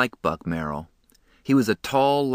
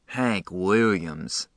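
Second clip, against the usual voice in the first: slow, fed-up sneer at a singer's name; Dally scorning the party music, slow and disgusted; eye-rolling disgust; much slower than usual. Acted. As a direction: drag out the name slowly with contempt. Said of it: "He rolled his eyes".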